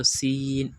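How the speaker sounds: "سین" with a sharp whistled s, long ee; whistling s. Shown as a demonstration. Teacher contrasting two letters, whistling s. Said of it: "اس کی آواز سیٹی کی سے آواز آتی ہے".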